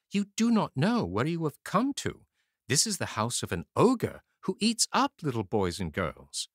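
high, sorrowful woman's voice; pitying woman. A narrator's reading. Ogre's wife warning the lost boys, pitying. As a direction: sigh over the poor children.

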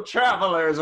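loud, high game show host rat; manic rat host. Acted. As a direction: greet the travelers like a manic host. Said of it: "the face is unfriendly and angry looking".

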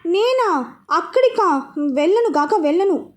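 put-on young wife loudly refusing to go; loud refusal. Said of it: "అన్నది పెద్దగా".

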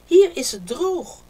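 calling out. A narrator's reading. Haas calling friends in from the flood, loud. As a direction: call them in out of the flood. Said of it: "riep Haas".

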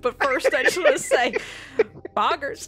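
Southern eulogy breaking into laughter; put-on Southern accent, barely keeping it together. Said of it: "the Southern accent Pogger".

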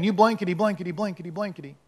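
mild stand-in swearing, fading away; mock cussing. Peter cussing at his accusers, mock cussing. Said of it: "He started cussing".

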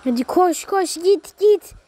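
building shout. Real, not acted. Urging player to run.

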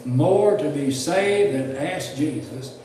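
emphatic, deliberate numbered read-out; steady pulpit reading, punching each item; reading a list aloud. Real, not acted. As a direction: proclaim each point to the congregation. Reads numbered list to congregation.

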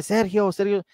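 mock calling out a name; retold cry. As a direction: mimic a distant caller lightly. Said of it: "ese grito que se oye".

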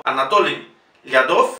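Anatoly with a full O on "TO"; stressed O. Shown as a demonstration. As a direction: Lyadov carefully after Anatoly with stressed O. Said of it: "pronunciamos O".

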